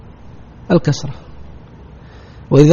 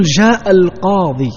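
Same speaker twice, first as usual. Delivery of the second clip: slow example sentence; 3 semitones higher, slower than usual. Shown as a demonstration. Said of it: "تقول".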